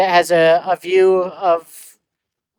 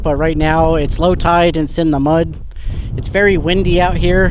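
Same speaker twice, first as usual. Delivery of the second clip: wind on mic; 4 dB louder than usual. Real, not acted. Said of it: "So sorry about the wind noise".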